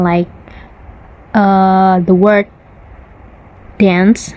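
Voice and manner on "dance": "dance" with the short flat a as in cat; the everyday non-RP "dance". Shown as a demonstration. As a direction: say "dance" like "danss", vowel as in "cat". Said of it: "as dance, not dance".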